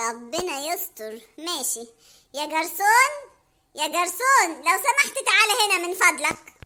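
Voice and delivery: put-on low, slow, nervous boyfriend; uneasy Hamada. Hamada nervously calling the waiter. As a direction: dread it, then call the waiter.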